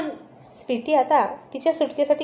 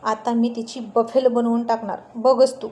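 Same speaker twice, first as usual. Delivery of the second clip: a touch of angry threat; in anger. Acted. Aaryan tells his sister his revenge, mildly angry. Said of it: "खूप रागात म्हणाला".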